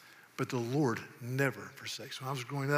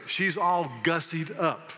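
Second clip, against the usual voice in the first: slow, emphatic folksy quote; drawn-out Southern saying; 3 dB louder, slower than usual. Acted. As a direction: savor the phrase word by word. Reciting Southern sayings as a test.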